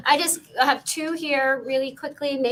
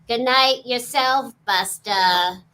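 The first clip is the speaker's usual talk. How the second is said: Janine Melnitz voice; 5 dB louder, slower than usual. Acted. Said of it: "the way this was said was".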